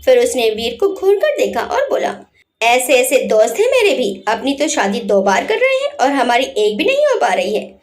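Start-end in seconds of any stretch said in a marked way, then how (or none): 2.6-7.8 mock complaint. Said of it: "last वाला dialogue ऐसे बोला".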